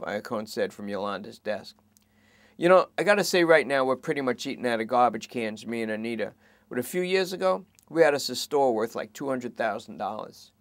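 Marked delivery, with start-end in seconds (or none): 2.6-10.5 higher, louder plea; begging suspect. Acted. Suspect begging the cops to search for her, higher anxious. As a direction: beg them to check. Lester reminiscing.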